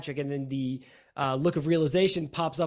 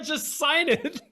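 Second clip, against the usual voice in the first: much higher, put-on coaxing voice; mock pushy coaxing; 12 semitones higher, slower than usual. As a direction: imitate him urging the signature in a squeaky voice. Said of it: "You're ju-, you're like".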